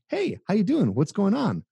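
high, eager buddy greeting; goofy friendly guy. Retold or imitated. Guy greeting a girl like a clownish pal, high and eager. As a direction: play the harmless clown saying hi. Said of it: "Like you're a clown".

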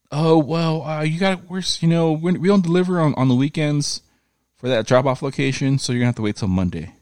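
high, sing-song customer service voice; mock FedEx agent. Imitating the FedEx agent for his cohost in a high mock voice.

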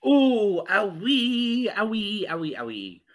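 high "owie" that falls away; sympathetic wincing. Real, not acted. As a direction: wince in sympathy, loud at first then fading. Wincing at gruesome injury story.

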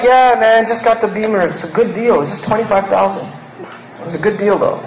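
offhand brag, played a little bigger; casual bragging. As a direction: let it slip in like it's nothing. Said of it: "And you're like".

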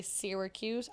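Syracuse with first syllable like "seer"; emphasized flattened Syracuse. Shown as a demonstration. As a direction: stress a drawn-out SEER in Syracuse. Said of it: "really putting an emphasis on it".

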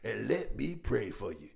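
slow, loud prayer-lady offer; mock a church lady offering prayer; pious church-lady invitation; churchy woman. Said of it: "She said".

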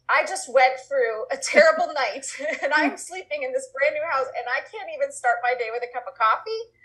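a hammed-up tired complaint that climbs high on coffee; half-laughing mock moan, tired and hard done by; mock whining, rising at the end. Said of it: "And you're like".

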